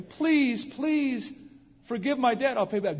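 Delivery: high, loud desperate begging; pleading. Retold or imitated. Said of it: "The guy pleaded with him".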